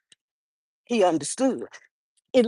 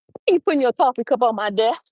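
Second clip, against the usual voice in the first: fast, light and teasing; playful question to John about his coffee cup; laughter and play; much faster than usual. Shown as a demonstration. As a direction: tease him while you ask. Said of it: "There's laughter and play in that sentence".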